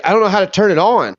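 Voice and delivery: high, fast mock helpless voice; a clueless guy asking for help, quick and high; imitating Vape. Retelling Vape's helpless question.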